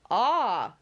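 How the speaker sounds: loud, instant exclamation; exclaimed. Acted. Captain Wentworth recognising the man at once, exclaimed. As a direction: cry it out as you spot something. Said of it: "cried Captain Wentworth instantly".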